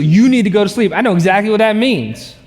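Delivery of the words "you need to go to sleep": louder, firm wife's order; louder stern wife. Retold or imitated. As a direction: say it louder like a wife ending the argument. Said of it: "She just".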